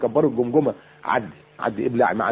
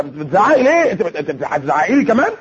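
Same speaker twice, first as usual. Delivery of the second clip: indignant husband. Acted. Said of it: "الراجل مننا يتجن من صوت المرأة العالي".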